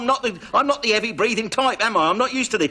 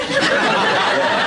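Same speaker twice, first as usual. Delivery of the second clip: yeah swallowed in a high laugh; 4 dB louder than usual. Real, not acted. Bursts out laughing on the phone.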